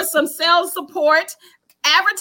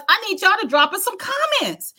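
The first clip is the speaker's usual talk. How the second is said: a laughing plea for "comments", higher pitch; laughing appeal; 5 semitones higher than usual. Real, not acted. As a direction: ask the viewers while laughing. Asks viewers for comments.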